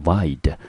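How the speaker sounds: "vide" sounded out by itself, like vied; "vide" on its own, cleanly separated; second syllable alone. Shown as a demonstration. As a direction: isolate "vide" as a model syllable. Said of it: "第二个音节念成".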